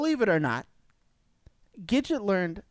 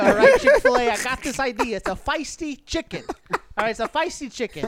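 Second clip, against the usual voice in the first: high, excited mock salesman pitch; hammed-up pitch to Chick-fil-A; 3 semitones higher, 4 dB louder than usual. Host pitching a feisty chicken idea, hammed up.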